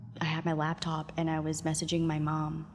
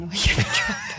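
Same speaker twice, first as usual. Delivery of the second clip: very high, laughing squeal through the words; laughing shout. Real, not acted. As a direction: shriek it while cracking up. Laughing echo of the punchline.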